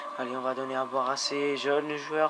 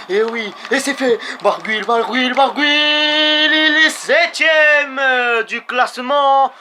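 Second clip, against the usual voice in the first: much higher, louder, slow stretched shout; excited shout; 9 semitones higher, 10 dB louder, slower than usual. Real, not acted. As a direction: yell the result in triumph. Rider wins sprint placing.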